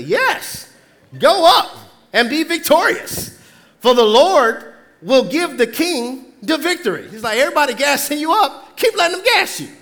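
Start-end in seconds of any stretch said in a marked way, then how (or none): 0.0-7.1 drip sarcasm as you echo the prophets; sarcastic. Acted. Micaiah sarcastically echoing the false prophets to Ahab. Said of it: "replied sarcastically". 7.4-9.7 fast, rising high, mocking; sarcastic taunt. Preacher paraphrasing Micaiah mocking the king.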